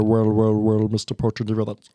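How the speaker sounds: a hint of sneering Snape; Snape impression. Shown as a demonstration. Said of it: "go down to his octave".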